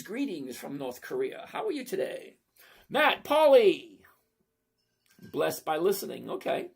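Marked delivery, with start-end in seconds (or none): 0.0-1.5 mock ominous. Shown as a demonstration.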